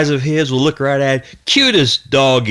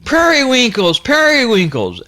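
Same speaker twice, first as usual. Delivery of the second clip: calling again; 9 semitones higher than usual. Retold or imitated. Boy still calling for his dog, high calling out. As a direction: keep calling the dog, higher than normal. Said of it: "After about four or five yells".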